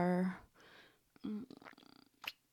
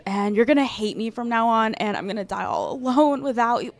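panicked rush; 7 dB louder, faster than usual. Acted. Panicked rambling apology.

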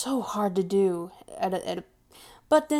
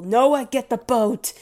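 higher, louder joking cry; mock alarm; 4 semitones higher, 5 dB louder than usual. Joking in horror at an awful voice idea, mock alarm. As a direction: call out in playful horror.

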